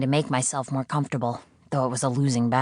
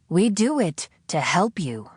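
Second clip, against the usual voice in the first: higher, patronizing lecture; condescending; 4 semitones higher than usual. Acted. The captor lecturing the prisoner, condescending tone. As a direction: talk down to her. Voice insists.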